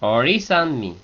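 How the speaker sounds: "Ori" peaking on its last vowel, falling through "sanmi"; accent on I. Shown as a demonstration. Teacher repeating for learners, stress on the I of "Ori". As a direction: lift the final I of "Ori", leaving "sanmi" unaccented. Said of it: "Solo la I de ori lleva, lleva acento".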